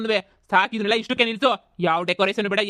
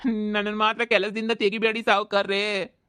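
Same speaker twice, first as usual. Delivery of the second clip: slow, drawn-out plea, ಮಾತ್ರ stretched; overacted pleading; slower than usual. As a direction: repeat the plea slower and heavier. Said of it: "ಶಾನೆ over acting ಮಾಡಿದ್ರೆ".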